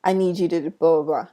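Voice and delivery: a light loud imitation of the brother's "Hey, hello"; brother's greeting. Imitating how the brother greets people, loud and curt. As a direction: mimic how he addresses people. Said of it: "That's how he says it".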